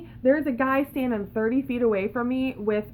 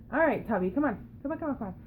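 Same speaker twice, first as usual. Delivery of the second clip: coaxing pet; 2 semitones higher, 3 dB quieter, much faster than usual. Real, not acted. Calling her pet.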